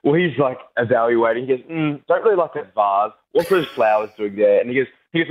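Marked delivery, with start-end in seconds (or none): 1.7-4.6 Seinfeld-style critique. Retold or imitated. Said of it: "we went just full Seinfeld".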